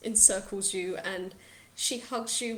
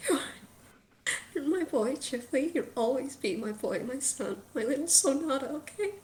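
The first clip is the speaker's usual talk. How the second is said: wavering, loving reassurance; lilting up to a high, pleading end; tearful, tender mother; 4 semitones higher than usual. Acted. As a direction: speak fondly through held-back tears. Weepy mother tenderly claims her son.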